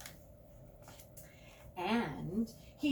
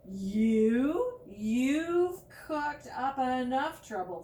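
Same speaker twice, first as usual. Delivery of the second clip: scolding; 5 semitones higher, 9 dB louder, slower than usual. Acted. Judy scolding.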